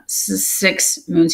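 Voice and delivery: soft, slow, halting stammer; nervous kitten who can't get it out. Acted. Shy apprentice answers the mentor, soft and stammering. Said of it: "he stammered".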